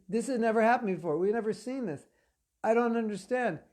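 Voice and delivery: high, fast, loud protest; acted baffled outburst; agitated bewilderment. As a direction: protest in flustered disbelief. Same messengers protest, agitated take.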